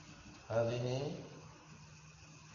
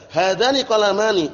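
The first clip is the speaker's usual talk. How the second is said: hadani qalamani, higher and louder; loud recitation; 6 semitones higher, 4 dB louder than usual. Shown as a demonstration. Teacher calling out hadani qalamani to students, loud. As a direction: announce the example to the class. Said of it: "teacher calls out examples".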